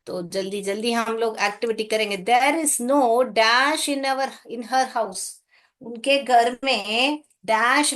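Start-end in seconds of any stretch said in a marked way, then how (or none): 2.2-5.3 very slow, word-by-word exercise reading; very slow read-aloud. Shown as a demonstration. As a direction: drag out the sentence slowly for pupils. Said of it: "reads the exercise sentence".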